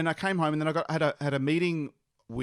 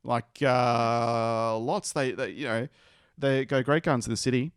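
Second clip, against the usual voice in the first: put-on broad Australian accent; 5 dB louder than usual. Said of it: "your Bogan farmer accent".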